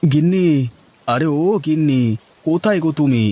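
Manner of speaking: calling out. Acted. Husband home looking for his wife, calling out. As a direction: call through the house, stretching the name.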